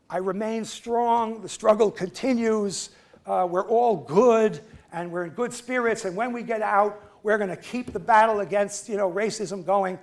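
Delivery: defiant letter. Retold or imitated. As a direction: declaim it like a proud defiant prisoner. Heroic letter that got censored.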